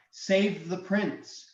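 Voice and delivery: slow, high-pitched plea; mimicked voice. Game master voicing the dragon's mimicry, mimicked voice. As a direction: call out for the prince, high and drawn out. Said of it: "talking to himself in several different voices".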